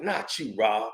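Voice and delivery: low, soft "Not you, Rob" spoken almost under the breath; soft first take of "Not you, Rob"; hushed plea. Retold or imitated.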